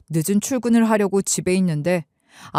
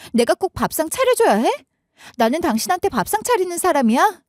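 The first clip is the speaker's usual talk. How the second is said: much higher wife's voice, indignant and sharp; wife angrily fighting back; 8 semitones higher than usual. Retold or imitated. Wife snapping back at husband about dinner, angry. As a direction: turn the tables, rising in outrage. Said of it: "아내가 화를 내는데".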